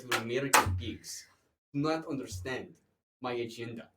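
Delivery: mock Russian-accented declaration. Revealed Russian telling off American pigs, mock Russian accent. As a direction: lay on a Russian accent, measured phrases. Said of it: "revealed my Russian accent to my father".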